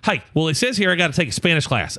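a hint of mom reading requirements aloud; mom's voice. Mom telling her son about a Spanish class, mom's voice. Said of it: "let me give you my mom's voice".

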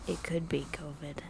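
whispered aside. Real, not acted. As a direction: drop to a secret whisper. Joking aside about covid.

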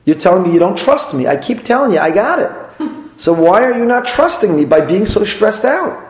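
indignant spouse building to a high-pitched plea; exasperated rant. Retold or imitated. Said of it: "I say".

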